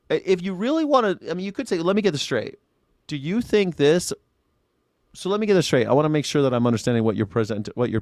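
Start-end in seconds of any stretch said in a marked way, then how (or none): 1.8-4.1 fair clarifying question. Shown as a demonstration. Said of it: "That would be a way to do it".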